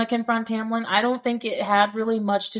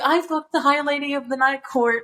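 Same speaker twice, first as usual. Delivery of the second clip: higher-pitched mock boast; petty bragging; 5 semitones higher than usual. Podcast host imitating a petty ex, mock bragging. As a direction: brag like a petty ex scoring a point. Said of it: "yeah, be petty".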